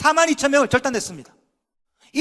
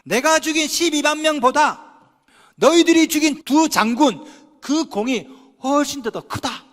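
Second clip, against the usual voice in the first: humble declaration; 4 semitones higher, 3 dB louder, slower than usual. Retold or imitated. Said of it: "분노를 가라앉히고 자존심을 죽이면서".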